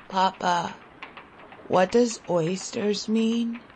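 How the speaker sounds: put-on weak, husky child's question. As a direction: ask faintly, voice husky from hunger. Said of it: "I asked in a husky voice".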